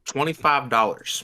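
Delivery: talking with gum in mouth; words round a wad of gum; mouth full. Real, not acted. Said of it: "why are you talking like this".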